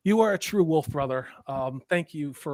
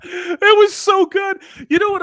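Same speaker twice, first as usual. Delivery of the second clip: laughing; 9 dB louder than usual. Real, not acted. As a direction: gasp it out laughing. Laughing hard.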